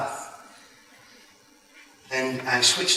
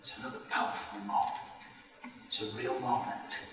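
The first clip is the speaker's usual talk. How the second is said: soft, choked-up voice; holding back tears; 5 semitones lower, 15 dB quieter, faster than usual. Real, not acted. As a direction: near tears, hushed. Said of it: "I'm gonna start crying".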